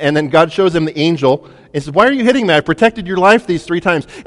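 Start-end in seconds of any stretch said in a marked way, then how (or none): 1.9-4.1 high, indignant donkey voice, a touch louder; a hurt animal protesting its beating; talking donkey. Acted. Donkey to beaten master, high and hurt.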